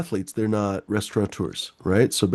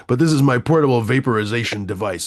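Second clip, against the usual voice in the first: put-on German accent. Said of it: "that's a fucking weird accent".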